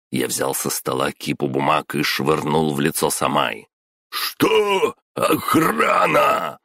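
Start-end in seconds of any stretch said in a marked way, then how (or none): 4.1-6.6 much higher, slow shriek for help; panicked scream. Acted. Boss screaming into the phone for security, terrified. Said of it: "закричал он в телефонную трубку".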